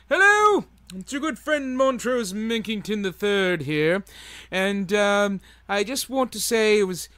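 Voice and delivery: high, pompous gentleman character; hammed-up posh gentleman persona; Montrose character voice. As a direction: play the fussy self-important critic. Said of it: "bring in your friend Montrose".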